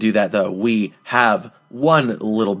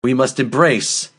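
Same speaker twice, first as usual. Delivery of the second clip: slow, measured mock sermon with weighty pauses; mock-solemn speech. Host rallying co-hosts for the warm-ups, mock-solemn. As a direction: draw it out like a mock-grand call to arms.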